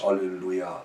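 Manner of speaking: ordinary delivery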